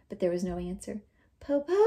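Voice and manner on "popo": shouting. Acted. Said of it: "Teo shouted".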